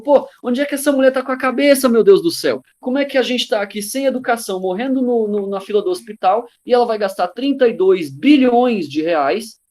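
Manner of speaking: high, exasperated mock rant; imitating public anger. Angry public questioning the president's stadium spending, mock outrage. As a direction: play the outraged citizen venting in disbelief. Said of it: "Todo mundo ficou com raiva".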